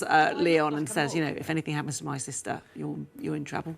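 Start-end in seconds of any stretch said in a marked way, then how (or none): 1.4-3.7 menacing threat. Retold or imitated. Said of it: "actually threatens".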